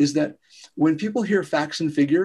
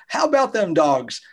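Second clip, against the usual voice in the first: fake friendly; 5 semitones higher than usual. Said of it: "It's all fake".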